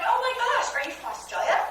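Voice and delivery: high, gushing start on an acted question; excited greeting. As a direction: act thrilled to meet an Australian. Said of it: "I'm so excited".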